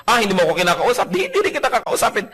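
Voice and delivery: high, fast petty retort; mock sulking retort. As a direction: toss it back pettily. Tit-for-tat sulking, mocked.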